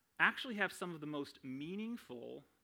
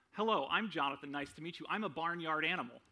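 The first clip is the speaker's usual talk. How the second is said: louder, bright fake greeting that trails into an absurd claim; mock introduction; 4 dB louder, faster than usual. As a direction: greet them cheerfully like meeting a stranger. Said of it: "if you'd hear somebody say that".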